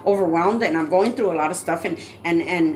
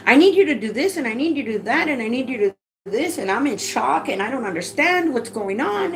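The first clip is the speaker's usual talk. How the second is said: panicked pleading; 5 semitones higher than usual. Retold or imitated. Panicked reply to 911 operator.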